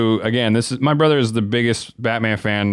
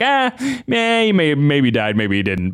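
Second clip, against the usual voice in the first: high-pitched "ah, man" easing down to normal; dismissive shrug-off; 4 semitones higher than usual. Acted. Friend mimics the hero wiping off a death, dismissively. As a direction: brush it off, starting high and sliding down.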